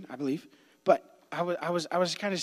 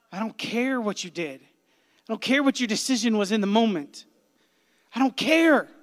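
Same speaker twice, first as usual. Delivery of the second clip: louder and higher with each line, ending in a shout; rising shout; 7 semitones higher, 8 dB louder than usual. Retold or imitated. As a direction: build from firm to a full, high-pitched shout. God's voice insisting on love.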